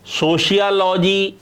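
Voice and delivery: सोशियोलॉजी said slowly as a faulty version; wrong pronunciation. Shown as a demonstration. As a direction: demonstrate the mistaken सोशियोलॉजी, drawn out. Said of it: "इसका उच्चारण हम गलत वे में कर देते".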